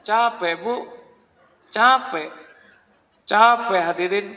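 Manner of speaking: exasperated cry. Real, not acted. Preacher exclaims tired, laughing.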